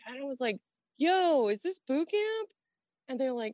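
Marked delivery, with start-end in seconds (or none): 1.0-2.5 high, bewildered question; young sailor asking if it's boot camp; confused young self. Retold or imitated. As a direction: sound lost and baffled.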